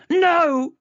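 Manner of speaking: high, loud shouted no; girl cutting off her father. Acted. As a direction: slam it shut. Chloe cuts him off.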